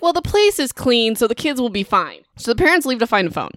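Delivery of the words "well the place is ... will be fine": airy mom voice, higher at the start; a careless mother waving off the danger; dismissive mom. Retold or imitated. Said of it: "the mom's like".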